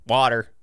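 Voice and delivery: "Water" with a New Jersey vowel; regional "Water". Shown as a demonstration. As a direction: show off your Jersey way of saying "Water". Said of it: "say water in a weird way".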